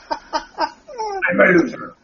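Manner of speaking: high, slow hammed-up whimper; fake-sob it, high and slow; mock crying loser. Mocking Venom's loser line with a fake sob. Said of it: "now he, it's".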